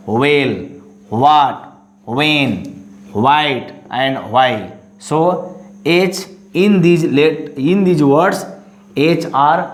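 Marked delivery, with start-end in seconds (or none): 0.1-4.7 WELL, WHAT, WHEN, WHITE, WHY begun on a plain W; WELL, WHAT, WHEN, WHITE, WHY with no H sound; silent H. Shown as a demonstration. Teacher reads out WH words for students, silent H. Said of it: "will not pronounce H letter".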